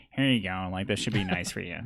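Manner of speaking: low-pitched, casual helper in character; Adger. Acted. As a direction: offer it in a slightly put-on low voice. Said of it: "I need to get my Adger impression on".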